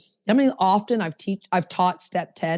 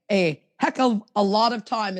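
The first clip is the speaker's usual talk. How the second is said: quoting Justin. Retold or imitated. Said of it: "as Justin would say".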